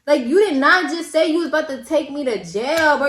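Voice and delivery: high, loud, crying protest; outraged disbelief. Retold or imitated. To the officer arresting her, a loud, crying, outraged protest. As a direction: wail it at the cop, stretching the words.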